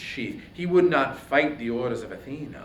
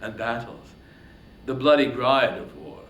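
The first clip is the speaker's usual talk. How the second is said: a proud, scornful king lashing out, louder; scornful, swelling royal fury; angry king; 6 dB louder than usual. Acted. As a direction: Agamemnon taunting Achilles in contempt. Agamemnon's speech to Achilles.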